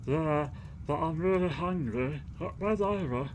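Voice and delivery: put-on a high little boy's voice; small child voice. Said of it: "got a bit more fucking Liam Neeson there".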